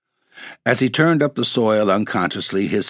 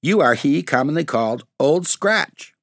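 sturdy; 8 semitones higher than usual. A narrator's reading. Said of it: "said Tom sturdily".

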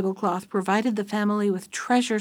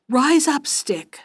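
raised, commanding call, falling on the last word; magic command; 5 semitones higher, slower than usual. A narrator's reading. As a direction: order the stick up with relish. Landlord gives the magic command.

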